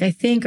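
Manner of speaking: "I think" lifted into a question at the end; unsure rising tune. Shown as a demonstration. Quoting an insecure writer, "I think" with a rising question tune. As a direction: let "I think" float up like you doubt it. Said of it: "not being confident in the, in the word choices".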